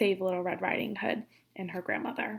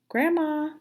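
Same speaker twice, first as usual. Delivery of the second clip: higher, louder call into the house; 6 semitones higher, 4 dB louder than usual. Acted. Girl calling for Grandma at the open door, calling out. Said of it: "she called".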